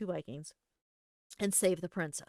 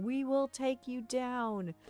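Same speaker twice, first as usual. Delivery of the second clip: Vikings' threat; 5 semitones higher, much slower than usual. Retold or imitated. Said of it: "the Vikings would show up behind us".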